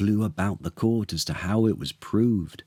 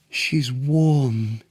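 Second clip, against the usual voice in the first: sighed in wonder; 6 semitones higher than usual. A narrator's reading. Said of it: "he sighed".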